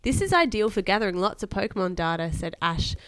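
put-on lively read-aloud to a child; expressive bedtime story reading. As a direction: read a children's adventure aloud with emphatic key words.

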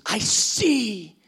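reassure, then rise in delight; loving bridegroom's affirmation; Jesus loving. Acted. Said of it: "He goes".

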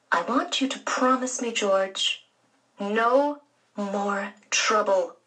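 hushed, slow and stern, ending in a whisper; serious warning. Acted. Aunt warning George seriously.

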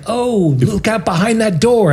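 hammy radio-play warning; listener calling out. Pretend. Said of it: "people who are listening in, you know, could be like".

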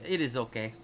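slight, badly faked Quebecois accent; a half-hearted go at a Quebecois accent; poorly imitated French-Canadian accent; attempted Quebecois accent. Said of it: "he's got a Quebecois accent".

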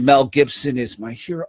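put-on warming up a Scottish accent; lightly put-on Scottish voice; mock Scottish accent. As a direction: try out a hint of Scottish. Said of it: "refined Scottish accent".

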